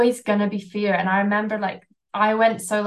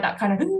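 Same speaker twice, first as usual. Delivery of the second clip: fearful gasp; faster than usual. Shown as a demonstration. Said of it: "fight or flight".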